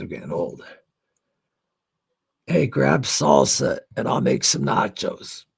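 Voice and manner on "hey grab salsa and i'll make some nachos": louder, slow call to someone in the next room. Real, not acted. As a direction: call it across the house, drawn out. Calls out to someone offstage.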